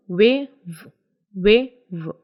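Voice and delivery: "वे" with rounded lips, then "व" with vibration; rounded-lip "वे" against buzzing "व"; contrasting व sounds. Shown as a demonstration. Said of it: "first को पढ़ेंगे lips round करके". (होंठ गोल करके "वे", फिर कंपन वाला "व")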